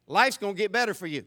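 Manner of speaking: usual speaking voice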